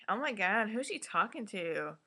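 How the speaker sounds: a mild, toothless challenge, imitated. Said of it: "Asha needs some bass in her voice".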